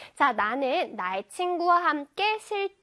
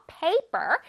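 Paper with a strong PA, falling second syllable; first-syllable stress. Shown as a demonstration. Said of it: "P A 부분 첫 음절에서 강세를 줘요". (Paper의 첫 음절에 강세)

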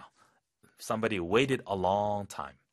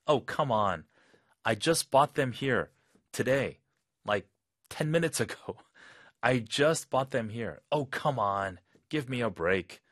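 exasperated customer; much slower than usual. Acted. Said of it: "거절당하니까 답답하죠".

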